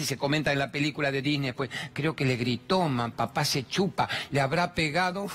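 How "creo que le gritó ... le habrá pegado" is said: put-on child voice. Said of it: "nenes de tres".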